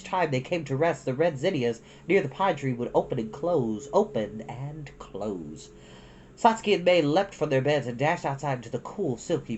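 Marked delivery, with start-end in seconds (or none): 3.9-5.7 a dreamy slowed repeat; slow soft echo. A narrator's reading. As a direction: open and close, drawn out slow and softer.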